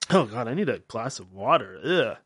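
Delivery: ordinary talk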